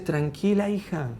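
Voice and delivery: calm an upset daughter; gently comforting; reassuring parent. Acted. Parent soothing a crying daughter.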